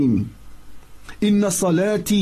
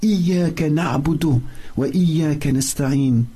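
rapid, flowing recital of the verse; quick Arabic recitation; quick Quran recitation; much faster than usual. Acted. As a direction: recite it fast and fluent from memory. Fatiha recitation.

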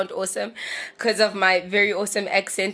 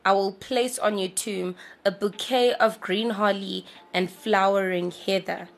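poem reading. Acted. Reads the poem aloud.

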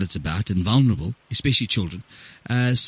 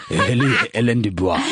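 mock German accent; 4 semitones lower than usual. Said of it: "I sound like a German".

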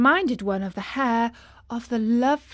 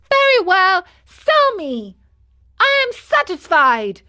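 high, loud, jaunty puppet voice; cheeky marionette; 9 semitones higher, 8 dB louder than usual. A narrator's reading. Pinocchio answering the man's threat, cheerfully defiant. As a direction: pipe up high, unbothered by the threat.

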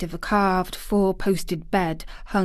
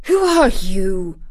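half-frightened whisper; 6 dB louder than usual. A narrator's reading. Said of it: "he said at last in a half-frightened whisper".

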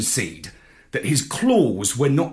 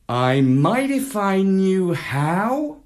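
Marlowe voice; 6 semitones higher, slower than usual. A narrator's reading. Marlowe unsure.

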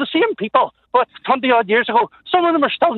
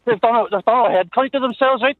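breathless while walking; out of breath. Real, not acted. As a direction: catch your breath between words. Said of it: "Walking while out of breath".

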